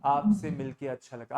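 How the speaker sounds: low monotone greeting; deliberately uninterested delivery; dull, listless. Shown as a demonstration. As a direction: drone it without enthusiasm. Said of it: "ये तो कभी नहीं बोलते".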